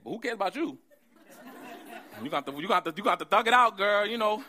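loud, laughing street-talk Abraham; Abraham talking slang. Retold or imitated. Husband urging his wife, in loud joking slang. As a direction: hype Sarah up to thug it out. Abraham voiced telling Sarah plan.

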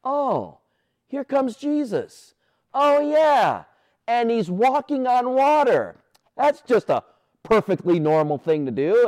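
high, airy mock nonchalance; mock casual. Pastor imagining a calm first thought, mock casual. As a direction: play it as if a man on the water were nothing. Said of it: "my first thought would have been".

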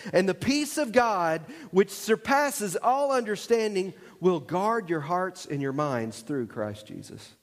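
slow measured Bible reading; scripture reading. Acted. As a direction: read the verse slowly and deliberately.

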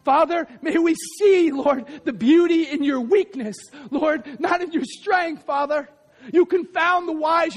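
impassioned preaching prayer, rising to shouts; fervent prayer. Real, not acted. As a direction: pray it out over the congregation with fire. Preacher praying at full force.

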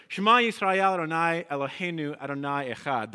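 the Shema spoken in Hebrew; Hebrew recitation. Shown as a demonstration. Teacher reciting the Shema to the congregation, careful Hebrew.

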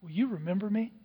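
quiet plea of a dying criminal; softened plea. Acted. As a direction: ask it very softly. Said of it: "he cries out".

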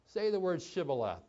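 "Shibboleth" said carefully with its SH; test word. Acted. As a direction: pronounce "Shibboleth" with a proper SH. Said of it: "about the pronunciation of the word".

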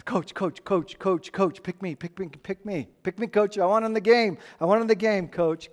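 lightly voiced eager kid pleading to play; eager player begging. Preacher voicing a player begging the coach to play. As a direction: beg the coach like a kid on the bench.

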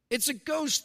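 a touch of hammed-up fright; mock fearful cry. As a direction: act out a frightened shout of ghost. Disciples cry out in fear.

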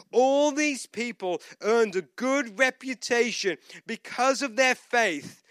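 slow, emphatic sermon reading; preached scripture reading. Acted. Preacher reading Hebrews about persecuted believers, emphatic preaching. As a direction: read it out to a congregation, drawing out key words. Reads scripture aloud to congregation.

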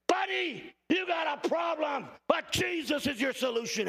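a hint of scolding yourself; mock self-talk in mirror. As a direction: tell yourself off, then offer hope. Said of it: "Look in the mirror and just say".

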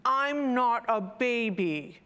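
put-on slow, mildly grumbling little child; little one's protest. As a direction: draw it out like a small child objecting. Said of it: "muttered the little one".

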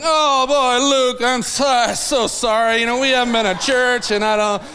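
imitating flustered, apologetic churchgoers; uncomfortable excuses. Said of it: "they just get so uncomfortable".

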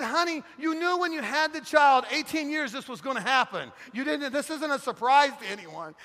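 high, loud mock-exasperated reasoning; exasperated husband. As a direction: plead incredulously with your wife, hammed up. Exasperated husband reasoning with crying wife.

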